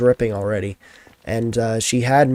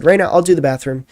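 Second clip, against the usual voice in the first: chirpy, higher and louder; bright cheerful offer; 5 semitones higher, 5 dB louder, faster than usual. Retold or imitated. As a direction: sound eager to help. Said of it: "I said".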